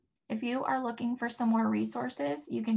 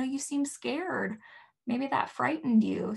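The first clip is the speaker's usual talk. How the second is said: put-on soothing baby talk; 3 semitones higher than usual. Shown as a demonstration. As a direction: gently tell a scared baby what it feels. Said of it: "naming that feeling".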